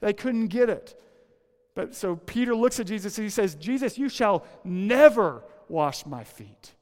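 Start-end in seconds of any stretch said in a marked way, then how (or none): 3.5-6.8 louder, slow, stubborn protest; indignant refusal. Retold or imitated. Preacher voicing Peter refusing Jesus, a loud, slow protest. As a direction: plant your feet and refuse him, slowly.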